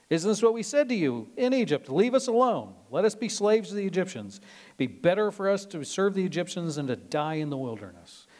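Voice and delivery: loud, high, aggrieved protest; whiny complaining. Retold or imitated. Israelites whining at Moses in the wilderness, loud and aggrieved.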